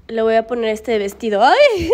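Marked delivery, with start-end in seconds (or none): 1.4-1.9 high, loud "ay"; sudden squeal of surprise; startled yelp. Real, not acted. Woman dressing her dog, startled yelp.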